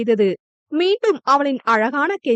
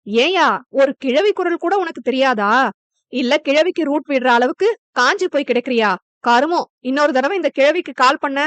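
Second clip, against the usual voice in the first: angry. Acted. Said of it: "என கோபமாக பேசிவிட்டு".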